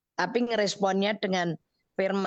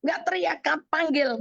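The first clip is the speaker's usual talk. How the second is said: put-on startled child; 6 semitones higher than usual. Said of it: "anak saya kaget kan".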